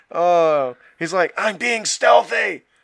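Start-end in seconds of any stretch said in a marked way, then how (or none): 1.3-2.5 loud, clumsy, pitched-up yelling in a character voice. Acting out a clumsy rogue who claims to sneak: yelling as a clumsy rogue. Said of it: "Not when you're yelling".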